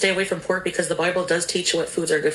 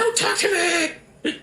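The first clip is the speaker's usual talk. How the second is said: laughing mock outrage; 9 semitones higher, slower than usual.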